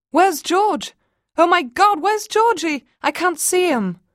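high, loud, frantic; panic. Acted. Mother realising her son is missing, panicked. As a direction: call out in sudden panic. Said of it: "They both began to panic".

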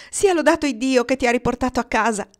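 mother praising God for his return; joyful exclamation. Acted. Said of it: "esclamò la madre". (esclamazione gioiosa e grata della madre)

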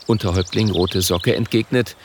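ordinary delivery

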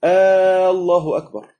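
loud "آه" leading into "الله أكبر"; questioning takbir. Shown as a demonstration. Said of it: "دي بتغير المعنى خالص".

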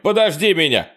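high, loud desperate yell. A narrator's reading. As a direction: call out begging him to wait. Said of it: "завопил Майк".

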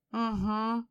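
a tipsy hiccuping grunt; drunk with hiccups. Acted. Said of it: "пьяно икнул Валерка". (пьяно, с иканием)

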